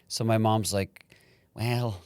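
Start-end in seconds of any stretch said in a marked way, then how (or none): 1.5-2.0 lightly voiced Scottish accent; a hint of Scottish mother; Scottish mom. Son imitating his mom, mild Scottish accent. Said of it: "she's Scottish".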